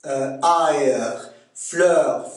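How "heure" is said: "ailleurs" as a stretched "a-eur" for heure; Québécois diphthong. Shown as a demonstration. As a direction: glide from ah into eur in "ailleurs", slowly. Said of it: "Le son E se prononce A E".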